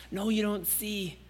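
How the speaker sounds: soft, tender reassurance ending near a whisper; loving father reassuring his child; tender fatherly voice. Pretend. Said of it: "That says".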